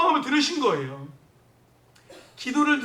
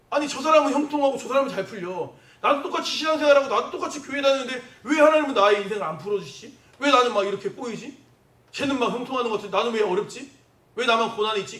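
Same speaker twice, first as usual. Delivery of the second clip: mildly louder, acted-out complaint; resentful grumbling; 3 semitones higher, 4 dB louder than usual. Preacher acts out a believer comparing himself to others, resentful. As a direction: grumble enviously in an imagined believer's voice. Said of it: "원망이에요".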